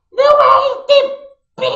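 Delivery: "R T P" shouted as the wrong version; wrong take mocked. Shown as a demonstration. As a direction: shout the wrong letters with scorn. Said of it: "se pronuncia R P T". ("R T P" gritado com desprezo)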